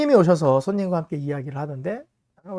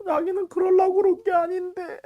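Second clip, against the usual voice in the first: put-on much higher little child's voice on the verge of tears; tearful little boy; 13 semitones higher, 3 dB louder than usual. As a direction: sound like a small boy about to cry. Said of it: "이러면서 이제 얘기가 나오는 거예요".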